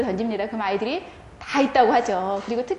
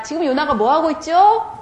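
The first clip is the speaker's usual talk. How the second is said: teacher question; 4 semitones higher than usual. Shown as a demonstration. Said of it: "자, 질문합니다".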